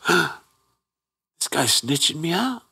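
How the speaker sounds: high, drawn-out mock disbelief; incredulous. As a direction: squeak it out in hammed-up shock. Acted shocked inner reaction to being exposed.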